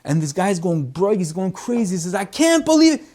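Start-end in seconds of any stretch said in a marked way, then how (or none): 2.1-3.0 much higher, loud disbelieving cry; overwhelmed that guests arrived; high shocked exclamation; astonished host. Retold or imitated. Host going crazy with joy.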